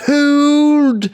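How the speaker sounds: high, loud, drawn-out bellowed commands; guard commander shouting. Acted. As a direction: bark orders down the wall as a guard captain. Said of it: "he had a blast just going".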